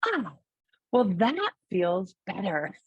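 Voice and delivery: lightly imitating a relieved small girl; a hint of a three-year-old's voice, with a relieved "oh"; little child's voice. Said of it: "her beautiful three and a half year old little voice".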